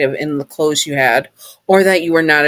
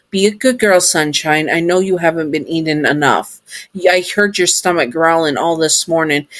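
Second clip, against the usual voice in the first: robot voice. Acted. Sun robot voiced in story.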